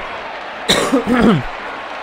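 sharp real cough; a quick chesty cough. Real, not acted. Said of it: "kaszlnięcie kontrolne to było".

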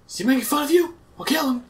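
mock tough guy. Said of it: "I was like".

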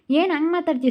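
wife flares up at her husband's insult, heated; heated rebuke. Acted. ಸಿಟ್ಟಿನ ಗದರಿಕೆ.

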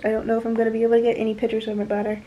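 breathless, rushing the words; out of breath. Real, not acted. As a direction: talk while short of breath. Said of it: "Oh, I'm out of breath".

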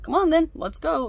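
high, loud mock readiness; put-on urging. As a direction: hurry them along in an exaggerated voice. Acting out her pointed agreement.

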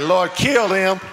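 shouted mock angry prayer; hammed-up furious plea to God; mock mad prayer. Preacher acting a mad prayer to God, mock shout.

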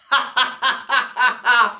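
long staccato ha-ha-ha; gleeful cackle after the impression; mocking cackle. Real, not acted. Laughing at the boshed Sheriff, mocking cackle.

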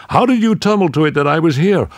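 pleased disbelief down the line; eager question. Acted. Rex asks Tanith how she found him, excited.

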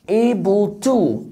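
very slow, drawn-out Able to; teacher modelling slowly; slow model word. Shown as a demonstration. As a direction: stretch Able to for learners.

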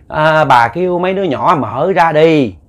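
slow, sly coaxing. Retold or imitated. Possessed man coaxing his wife to open up, slow and sly. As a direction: lure her gently and slowly. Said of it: "Nó dụ bà ba các bạn".

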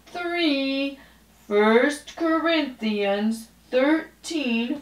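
put-on slow, each word spaced for kids to follow; a slow sing-along verse for little ones; slow choral recitation. Shown as a demonstration. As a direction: recite it slowly so children can join in. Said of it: "boys and girls, it's your turn".

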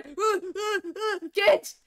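put-on high, loud frantic call to the kids; panicked yelling. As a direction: yell for the kids in alarm.

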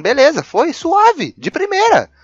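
high loud slow cheer; excited triumph. Real, not acted. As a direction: crow with delight. Celebrating success.

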